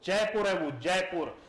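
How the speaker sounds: जयपुर said fully with a clear r; full Jaipur. Shown as a demonstration. Teacher showing students the full Jaipur, clear r. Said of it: "पूरा pronounce करो ना उसको".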